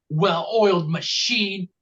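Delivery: slow "well-oiled machine" leaning on oiled; well-oiled said slowly, weight on oiled; stress on oiled. Shown as a demonstration. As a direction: drag it out and hit oiled. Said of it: "you put the emphasis on oiled".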